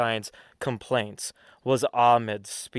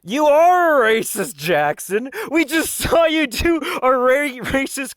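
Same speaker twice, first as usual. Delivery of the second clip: shouting; 11 semitones higher, 3 dB louder than usual. Acted. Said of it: "mock accusing shout".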